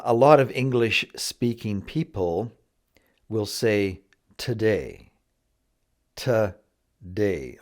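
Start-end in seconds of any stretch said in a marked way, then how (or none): 4.4-7.6 "today" with the first syllable weakened to a quick "tuh"; reduced first syllable. Shown as a demonstration. Teacher shows learners how many English speakers say it, reduced "tuh-day". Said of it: "almost like it should be T A".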